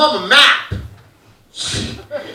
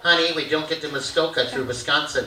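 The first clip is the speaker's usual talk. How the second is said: nagging mom; 6 semitones lower, 6 dB quieter than usual. Retold or imitated.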